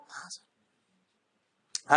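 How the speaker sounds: a whispered "हाँ sir"; whispered student reply. Pretend. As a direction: breathe the pupil's yes. (फुसफुसाकर छात्र का जवाब)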